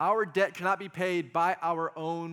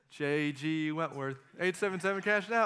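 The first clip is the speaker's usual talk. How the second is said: a hint of a jingle announcer. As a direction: quote the cash-now commercial as a joke. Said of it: "couldn't help myself".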